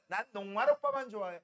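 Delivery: mock picky girl turning down a suitor; lightly voiced choosy girl; fussy girl amylase. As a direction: amylase the enzyme snubbing protein, mock fussy. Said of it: "그럼 너 누구 좋아해?".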